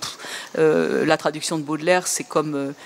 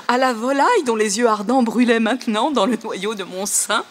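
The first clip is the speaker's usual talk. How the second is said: higher reading, breaking into laughs; reading through laughter; 3 semitones higher than usual. Shown as a demonstration. Lecturer laughing at Google's odd lines, reading through giggles. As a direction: try to read while giggling. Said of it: "bon, ça continue".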